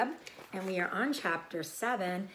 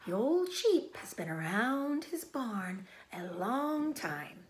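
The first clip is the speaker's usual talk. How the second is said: whisper; 4 semitones higher than usual. Acted. Charlotte answering Wilbur in a whisper. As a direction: say it gently.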